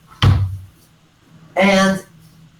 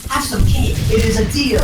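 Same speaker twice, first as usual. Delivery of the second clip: higher-pitched sales offer; lightly voiced vendor, pitched up; mock cake seller; 4 semitones higher than usual. Vendor offers hungry Kevin Hart cake, mock pitch.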